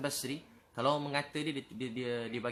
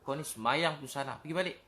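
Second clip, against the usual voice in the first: mock scolding; 2 semitones higher, 3 dB louder than usual. Preacher mimics scolding a newcomer at the mosque, mock exasperated. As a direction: imitate telling someone off. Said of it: "Takkan kita kata".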